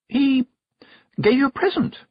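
high, loud, fast and prying; bursting to know; eager witch. A narrator's reading. Miss Tick voiced.

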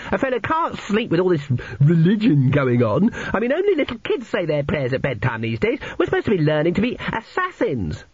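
high-pitched grumbling schoolboy; indignant schoolboy. A narrator's reading. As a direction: protest in a put-on high boy's voice. Narrator voices indignant Cheesewright.

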